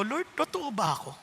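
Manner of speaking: soft, hushed question to the Lord; soft prayerful doubt. Retold or imitated. Pastor quietly asking the Lord if he is real, hushed. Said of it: "tinatanong ko yung sarili ko".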